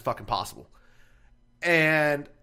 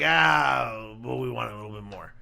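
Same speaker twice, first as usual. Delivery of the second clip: mocking customer; 5 semitones lower, slower than usual. Mocking fussy steak customers.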